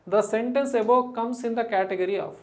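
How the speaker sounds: slow, deliberate question read. Shown as a demonstration. Teacher reads question aloud slowly. (నెమ్మదిగా ప్రశ్న చదవడం)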